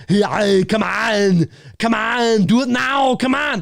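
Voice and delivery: high, strained action-star impression; Arnold. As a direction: yell it out like a hammed-up catchphrase. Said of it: "That's not an Arnold impression".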